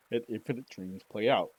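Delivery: mid-yawn speech; words pulled long by a yawn. Real, not acted. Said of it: "I was yawning".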